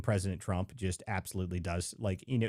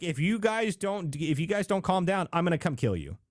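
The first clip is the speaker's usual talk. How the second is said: Trump-style threat; 7 semitones higher than usual. Retold or imitated. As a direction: play Trump bluntly warning them, hammed up. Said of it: "It's like".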